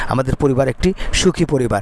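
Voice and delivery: ordinary delivery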